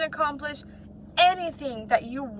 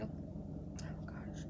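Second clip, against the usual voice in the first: voice catching with grief; 16 dB quieter than usual. Real, not acted. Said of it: "I'm a little emotional apparently".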